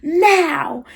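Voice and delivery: strained, high imitation of an angry mom; retold scream without full volume; mock scream. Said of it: "just started screaming at her".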